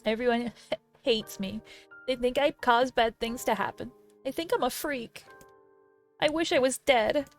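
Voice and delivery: tearful despair. Acted. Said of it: "tears turned to sobs".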